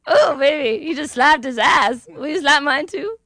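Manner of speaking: high, loud, playful squealing; flirty squeal. Real, not acted. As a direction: tease them, begging for a slap. Flirty reaction to ass slap.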